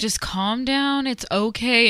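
retold coaxing, drawn out gently; soothing. Partner to upset partner in a fight, soothing.

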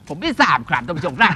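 lightly imitated news commentator; Suthichai Yoon. Shown as a demonstration. Performer answering his own question to viewers, light reporter impression. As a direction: deliver the punchline in a mock reporter voice. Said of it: "เป็นผู้ที่รายงานข่าวเกี่ยวกับการเมืองคุณสุ".

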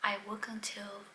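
whispering through a swollen mouth; barely moving a sore, swollen mouth; swollen lip. Real, not acted. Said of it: "My mouth is swollen on this side".

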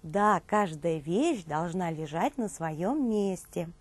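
usual speaking voice

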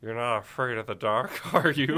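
low, menacing movie-villain line, cracking into a laugh; lightly voiced gravelly antihero, breaking up; Riddick line. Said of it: "What if I do a Riddick line?".

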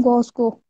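"गॉस्को" with the L of Glasgow missing; mimicked mispronunciation. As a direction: throw back his "गॉस्को", Gos-ko for Glasgow. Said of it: "ग्लासगो को क्या बोल रहे हो तुम?".

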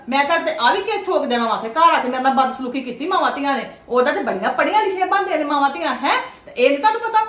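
loud, threatening scold; angry scolding. Acted. Mother-in-law scolding the visiting mother, loud and angry. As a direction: raise your voice and threaten a lawsuit. In-laws quarrel at the door.

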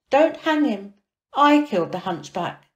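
high, loud plea to stop the hanging; urgent confession. Acted. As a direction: call out to halt it. Pushing through crowd to confess.

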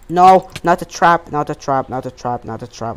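panicked repeat that trails away; fading panic. Real, not acted. Panicking about a trap.

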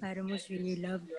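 soft whispered answer, barely voiced. Real, not acted. Student whispering her answer in online class. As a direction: breathe it like a secret in the ear. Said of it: "Icy was trying to whisper something in your ears".

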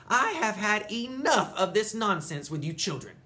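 loud, high scolding holler. Acted. Nana scolding the children for their nonsense, loud holler. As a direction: scold the whole crowd of children. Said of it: "she hollered".

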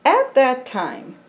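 slow, earnest picture-book reading; storybook voice for a child. Acted. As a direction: tell it gently to a young listener.

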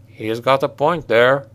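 slow, muffled, as if from inside a pouch. Acted. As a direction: speak muffled and slow, voice smothered. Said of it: "came Humbart's muffled voice".

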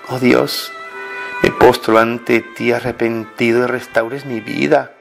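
normal talking voice

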